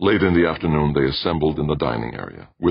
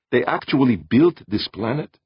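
high-pitched amazed question; marveling; 9 semitones higher than usual. A narrator's reading. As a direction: ask it in wonder, pitch lifted.

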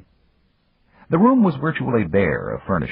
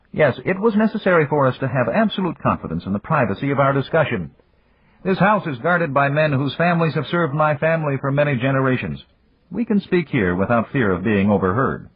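put-on higher, measured voice of an old friend; Japanese magnate; 8 semitones higher than usual. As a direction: voice the older businessman, courteous and calm. Yamagata explains privacy.

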